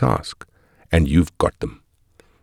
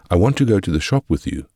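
mock demanding child; 2 semitones higher, faster than usual. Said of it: "they demand, stomping their feet".

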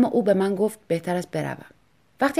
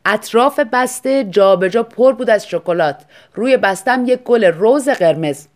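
slow, louder reading of the note; quoted note read slowly; 3 semitones higher, 8 dB louder, slower than usual. A narrator's reading. (خواندن آهسته و بلند یادداشت)

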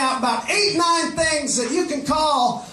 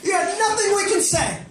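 taunting shout; 5 semitones higher than usual. Acted. Taunting ladies, high shout.

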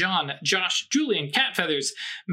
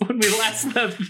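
laughing; 4 semitones higher than usual. Real, not acted. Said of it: "damn, just called out".

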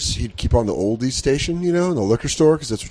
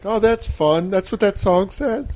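put-on higher naive kid voice; 7 semitones higher, slower than usual. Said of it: "I was like".

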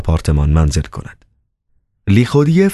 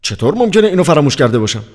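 quick, higher-pitched self-questioning; muttering to himself; 9 semitones higher, faster than usual. A narrator's reading. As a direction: wonder aloud to yourself, puzzled and hurried. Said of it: "با خود زمزمه کرد".

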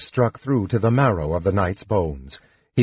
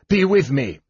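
higher, urgent plea; shout; 5 semitones higher than usual. A narrator's reading. Knight prays aloud while fighting the spectre, shout. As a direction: call out for divine help. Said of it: "he shouted".

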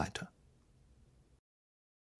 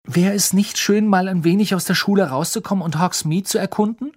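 higher, louder hopeful schoolgirl; higher schoolgirl voice, coaxing; coaxing Hermine; 6 semitones higher, 4 dB louder than usual. Acted. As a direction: talk him into it, eagerly.

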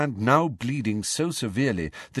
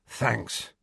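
grateful; 3 semitones higher, 4 dB quieter than usual. Acted. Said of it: "he said gratefully".

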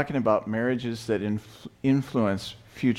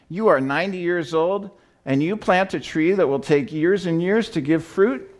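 disbelieving; 7 semitones higher than usual. Acted. Nobleman disbelieving old man's age.

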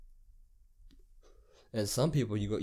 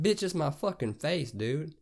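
higher-pitched indignant comeback; exasperated retort; 6 semitones higher, 3 dB louder, slower than usual. Retold or imitated. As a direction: act out arguing back at the manager. Acted retort to manager.

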